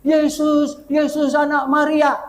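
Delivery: mock cry out. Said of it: "dia teriak".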